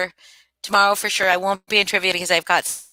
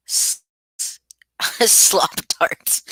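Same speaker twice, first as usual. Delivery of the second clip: whisper; much slower than usual. Real, not acted. Stumbling, giggling aside to chat.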